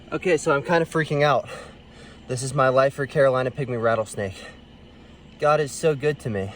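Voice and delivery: breathing hard from excitement; panting between words. Real, not acted. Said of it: "I'm sorry I'm breathing so hard".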